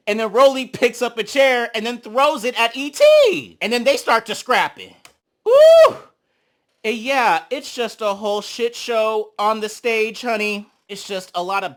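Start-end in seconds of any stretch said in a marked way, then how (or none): 5.4-6.0 very high, loud cheering woo; excited woo. Real, not acted. Cheering the onstage brawl, loud high woo. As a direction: whoop at the chaos.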